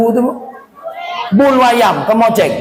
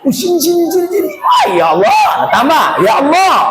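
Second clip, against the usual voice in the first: much higher gossipy squeal; high excited tone; 9 semitones higher, faster than usual. Shown as a demonstration. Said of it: "Yang situ lain lagi". (nada tinggi bergosip)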